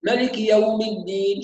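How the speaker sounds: مالك swallowed as melik with clipped vowels; rushed vowels. Shown as a demonstration. Teacher showing students the rushing mistake. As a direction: rush مالك and eat its short vowels. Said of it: "يقرأ مثلًا".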